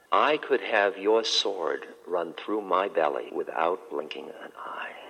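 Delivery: slow and calm, fading into a whisper; serene monk. Acted. Calm monk answers the captain.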